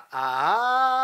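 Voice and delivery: held note with vibration. Shown as a demonstration. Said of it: "끌다가 진동 주기".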